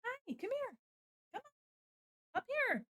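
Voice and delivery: very high, soft pet voice; coaxing a pet. Real, not acted. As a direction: coo to the cat to climb up. Calling the cat up.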